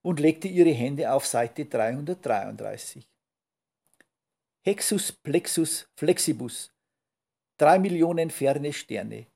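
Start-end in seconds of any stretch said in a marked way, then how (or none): 4.6-9.3 raised, emphatic spell-casting voice; loud incantation. A narrator's reading. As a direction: proclaim the magic spell. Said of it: "sagte sie laut". (laut beschworener Zauberspruch)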